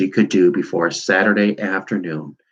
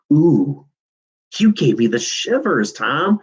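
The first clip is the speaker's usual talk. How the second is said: mock wail; 6 semitones higher than usual. A narrator's reading. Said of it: "wailed Hetty".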